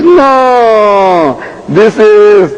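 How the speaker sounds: slow, drawn-out recital of a prayer; reciting reader. Retold or imitated. Man reading the Arabic calligraphy aloud to the speaker, reciting. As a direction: intone it slowly, stretching the words. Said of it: "He says, ... in Arabic".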